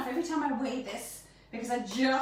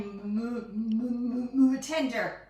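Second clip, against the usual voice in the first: tongue-tied stammer; slower than usual. Real, not acted. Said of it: "I just can't say the M word".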